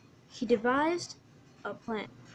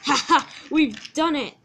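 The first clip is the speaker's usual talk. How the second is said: gleeful mock laugh, raised pitch and volume; giggling trucks; 3 semitones higher, 5 dB louder than usual. Trucks celebrate their trick on Percy, gleeful. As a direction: crow over a successful prank. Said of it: "The trucks were giggling and laughing".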